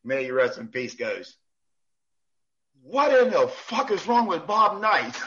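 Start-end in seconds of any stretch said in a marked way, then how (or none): 2.8-5.1 slow, drawn-out coach voice; slow and incredulous, in character; imitating John Thompson. Coach asking the ref about Bob Knight, slow. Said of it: "John Thompson going, goes".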